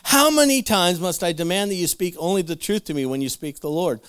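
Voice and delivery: mildly hammed-up royal exasperation; exasperated king. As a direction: demand it as a fed-up king. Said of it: "this answer exasperates King Ahab".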